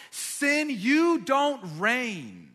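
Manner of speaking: high, loud and very slow; booming sermon command; forceful declaration. Shown as a demonstration. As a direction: proclaim it to sin's face. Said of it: "then to decide".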